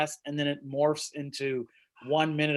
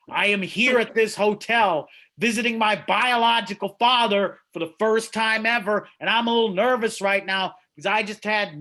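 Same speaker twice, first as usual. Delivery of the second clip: bold reply; 5 semitones higher, 4 dB louder than usual. Retold or imitated. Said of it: "you look at them and you say".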